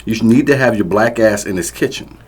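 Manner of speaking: loud, high berating shout; angry yelling. Acted. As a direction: tear into her over dinner. Abusive father ranting.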